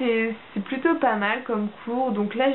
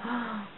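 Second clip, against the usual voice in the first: retold gasp of shock; 10 dB quieter than usual. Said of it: "entre surprise et choquée".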